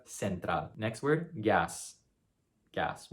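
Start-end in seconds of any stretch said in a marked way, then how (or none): 0.1-0.7 central as sen-TRAHL, s for the c; Latin American pronunciation. Shown as a demonstration. Teacher giving the Latin American variant, central as sen-TRAHL. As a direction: say central with an s sound, stressed on TRAL. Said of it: "Or in Latin America".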